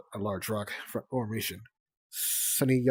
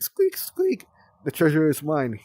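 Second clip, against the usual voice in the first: very high triumphant squeak, louder; squeaky scavenger; 5 semitones higher, 8 dB louder than usual. Acted. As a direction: gloat like a tiny thief.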